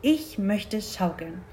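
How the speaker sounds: slow, calm cow voice; quiet insistence, taking its time. Acted. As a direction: state the wish calmly and unhurriedly. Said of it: "sagte Mama Mu ruhig".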